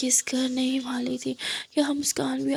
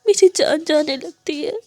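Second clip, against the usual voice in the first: rising into sobbing, voice breaking on the pain; crying confession of love; tearful plea; 3 semitones higher, 3 dB louder than usual. Acted. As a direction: beg forgiveness through tears. Muskan's tearful confession to Aadiya.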